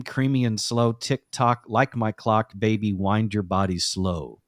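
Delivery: understated public-radio reading of lyrics; NPR host deadpan. Acted. Host reciting an Uber driver's song lyrics to co-host, understated NPR deadpan. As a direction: read sultry lyrics as measured, sober narration. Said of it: "You sounded like an N P R guy doing really filthy R and B".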